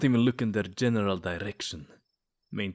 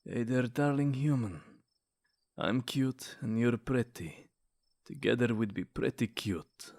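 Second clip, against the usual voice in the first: smooth pickup line. Acted. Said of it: "let me pull out the ace".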